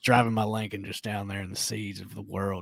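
Matthew McConaughey impression. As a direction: muse like McConaughey in a car ad. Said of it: "I love a Matthew McConaughey".

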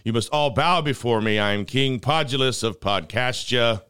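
grand royal proclamation voice; pompous king. Pretend. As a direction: proclaim like a vain self-crowned king. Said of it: "that sounds so ridiculous".

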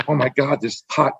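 giddy starstruck mom. Retold or imitated. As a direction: gush like a mom swooning over her hero. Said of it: "she's, like, freaking out".

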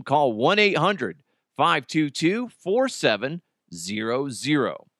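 brisk, upbeat sponsor read. Acted. Host reading a sportsbook ad to listeners, in a brisk ad-read voice. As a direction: sell it like a live radio spot.

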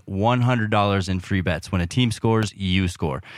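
upbeat sponsor read, lightly voiced. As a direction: read it like a podcast ad spot.

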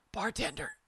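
put-on high little-kid voice on Bartender; two-year-old Dan. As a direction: say Bartender as a tiny toddler would. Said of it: "picture two-year-old Dan telling this joke".

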